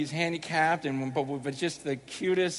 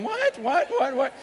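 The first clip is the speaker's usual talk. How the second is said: high squeaky incredulous "What?" repeated; mock girls' disbelief; 9 semitones higher, 3 dB louder than usual. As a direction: play the shocked women in the crowd, pitch jumping up. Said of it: "Some of you girls are going".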